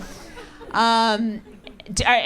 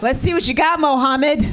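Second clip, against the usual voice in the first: goading challenge; 4 semitones higher than usual. Acted. Mother to son she pushed in the pool, goading. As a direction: call out a challenge to the swimmer.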